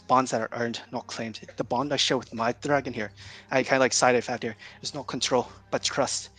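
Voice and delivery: formal speech. Acted. Character gives formal speech.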